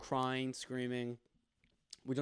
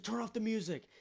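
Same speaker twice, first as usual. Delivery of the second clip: mock yell, pitched up, for everyone to shut up; hammed-up order to the whole party; imitating dad yelling; 8 semitones higher than usual. Dad at the party telling everyone to shut up, a pitched-up mock yell.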